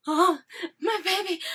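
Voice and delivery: high, loud delighted squeal; gushing squeal. Retold or imitated. Fan retells seeing Steve return, high gushing squeal. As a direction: squeal over a beloved character. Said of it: "No, not quite like that".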